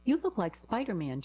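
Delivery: a hint of a young girl; lightly voiced little girl. A narrator's reading. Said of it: "the girl turned to a tall".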